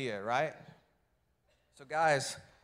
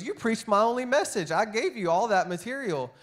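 much higher and louder mock outrage; hammed-up furious wife; indignant wife; 8 semitones higher, 6 dB louder than usual. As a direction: squeal it like the wronged wife. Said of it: "she goes".

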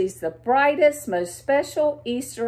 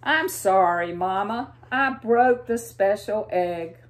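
sad apology; 3 dB louder than usual. Acted. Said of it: "says sadly".

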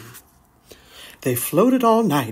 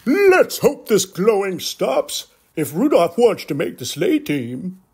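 higher, louder worried Santa; doubtful Santa; 4 semitones higher, 3 dB louder than usual. Acted. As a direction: voice Santa, concerned. Santa worries about nose.

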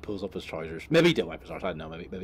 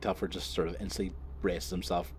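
normal talking voice

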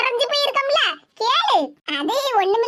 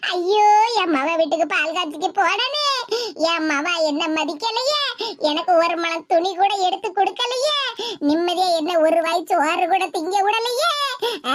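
mock wailing lament; 4 semitones lower than usual. Mother mocking the idea of weeping over her daughter, mild mock wail. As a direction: ham up a crying mother's lament, only lightly. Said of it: "அப்படின்னு உட்கார்ந்து அழ சொல்லுதியா".

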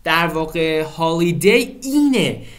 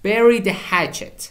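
slow model reading; 4 semitones higher, much slower than usual. Shown as a demonstration. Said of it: "teacher models the idiom slowly".

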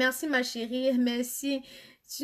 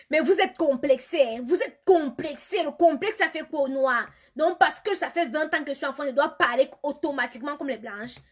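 loud, high, punchy telling-off; indignant scolding; 3 semitones higher, 6 dB louder than usual. Real, not acted. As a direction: take them to task, hitting the key words hard. Scolds viewers mocking her accent. (remontrance indignée, forte et martelée)

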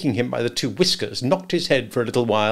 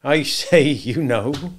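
Joe's voice, raised in mild protest; muttered remonstrance; 4 semitones higher, 6 dB louder, slower than usual. A narrator's reading. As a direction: remonstrate with the boy, a little high. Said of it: "muttered Joe".

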